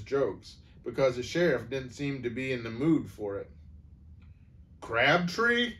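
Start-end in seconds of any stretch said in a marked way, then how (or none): 4.8-5.7 rising, puzzled call of the name; surprised question. A narrator's reading. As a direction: ask the name in disbelief. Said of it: "the sheriff said".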